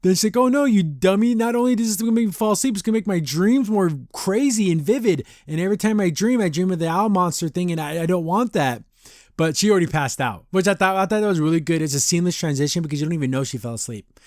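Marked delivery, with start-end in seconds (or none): 0.4-8.8 higher-pitched, retold protest; mock-exasperated objection to being drugged; alarmed scolding.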